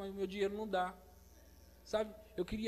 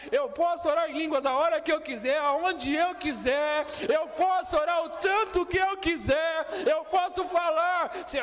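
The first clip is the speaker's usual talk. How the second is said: loud, high preacher's cry; fiery preaching; 6 semitones higher, 8 dB louder than usual. Acted. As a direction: preach it out at full force. Preaching at full force again.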